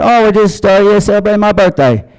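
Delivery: high-pitched put-on British voice; mock British accent. Diner tells a famous singer about the birthday in mock British accent. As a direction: imitate a Brit, pitched well up. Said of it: "I started speaking like a Brit".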